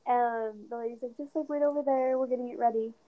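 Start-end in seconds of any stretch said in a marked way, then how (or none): 1.2-2.9 muffled, covered microphone sound; finger over the mic. Real, not acted. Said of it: "I think you're covering your mic".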